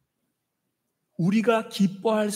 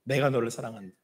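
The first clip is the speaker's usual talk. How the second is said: softer, hushed echo of the line; soft repeat; 7 semitones lower, 6 dB quieter, faster than usual. Acted. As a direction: say it again as a quiet whisper of love. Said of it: "이렇게 말씀하시는 거예요".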